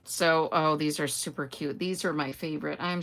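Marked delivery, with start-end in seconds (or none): none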